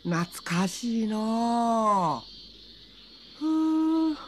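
lightly voiced rustic old man; a hint of a drawling village man.

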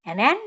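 an ant, said clearly; an ant as a model phrase; example phrase. Shown as a demonstration. Teacher giving an ant as a childhood example. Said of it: "อย่างเช่น".

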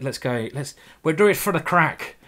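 lightly imitated Irish accent. Irish person urging a friend to join in, imitated Irish accent. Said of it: "it was an Irish person".

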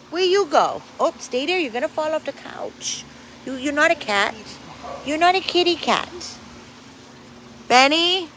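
high voice talking to the dog. Real, not acted. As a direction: scold the dog gently in a high voice.

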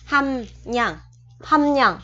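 "hâm nhận" with r turned to n after m; sound-change demo. Shown as a demonstration. Teacher shows learners R becoming N, nasal demo. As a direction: model "hâm nhận" carefully, humming the m into n. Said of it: "chuyển nó qua thành chữ N".

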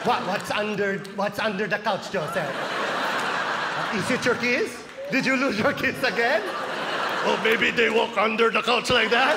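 put-on taunting questions in a Filipino accent; mom teasing, Filipino accent. Mom messing with her son hunting for keys, teasing Filipino accent. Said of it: "my mom's right behind me fucking with me".

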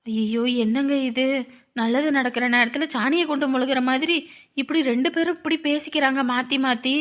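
low, soft grumbling; dismayed aside. Acted. Onlooker lamenting a quarrel during the ceremony, hushed dismay.

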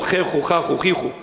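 chechu, chachu, chichu with throaty Aramaic ch sounds. Shown as a demonstration. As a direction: roll out chechu, chachu, chichu as strange foreign syllables. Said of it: "Aramaic is very difficult".

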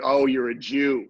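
slow, hard-edged remark; accusing tone. Shown as a demonstration. Host demonstrating the problem wording, mock accusing tone. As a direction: say it slowly, landing heavily like an accusation. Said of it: "Depends on the tone, your cadence".

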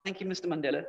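soft, deferential thanks; respectful. Acted. Awed listener politely thanking Mister Mandela, respectful. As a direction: thank him quietly, with respect. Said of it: "You would be respectful".

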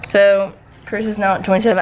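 talking around a retainer; slightly lisped retainer speech; wearing a retainer. Real, not acted. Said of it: "I have my retainers in, so that's why I sound like that".

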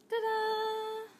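high, held ta-da; playful ta-da. Real, not acted. Cake host showing the piped border, playful ta-da. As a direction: sing it out to present your handiwork.

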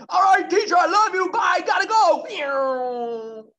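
high, loud happy farewell; cheery dinosaur goodbye. Acted. Little dinosaur leaving class, calling goodbye to the teacher excitedly. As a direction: call out goodbye as you rush off.

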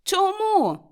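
high, loud shout. A narrator's reading. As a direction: shout the question out. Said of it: "закричав племінник". (гучний вигук)

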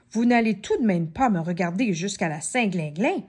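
impatient. Acted. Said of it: "s'impatienta Madame Chippy".

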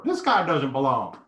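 slow frog puppet impression; lightly voiced frog puppet; Kermit the Frog. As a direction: imitate a puppet frog, drawing it out. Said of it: "Kermit the Frog is coming over there".

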